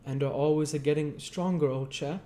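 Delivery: caring working man; kindly Joe voice. Acted. Joe asks Pip.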